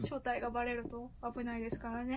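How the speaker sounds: electronically altered voice; voice changer. Real, not acted. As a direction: voice run through a voice changer. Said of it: "ボイスチェンジャー使ってるんでね".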